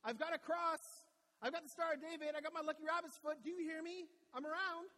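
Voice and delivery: loud, high-pitched hammed-up wail to heaven; mock bawling. Someone fallen flat at home begs God, mock-bawling loudly. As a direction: cry out to God in exaggerated desperation, shouting. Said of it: "you're crying and bawling and going".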